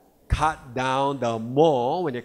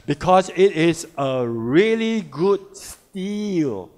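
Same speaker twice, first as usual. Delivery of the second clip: excited; 4 dB louder, slower than usual. Real, not acted. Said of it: "I got very excited about this".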